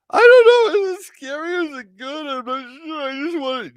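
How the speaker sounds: put-on very high, small timid girly voice; squeaky naive voice. Unsure newbie asking her partner, very high and timid. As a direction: play a clueless, eager newbie.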